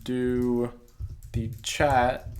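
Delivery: the chat, called out loud; bright call to viewers. Real, not acted. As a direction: announce the chat feature with a push. Pointing out chat on phone.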